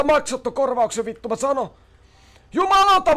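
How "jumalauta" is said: loud, high angry swear; real irritation; frustrated curse. Real, not acted. Frustration after the mistake.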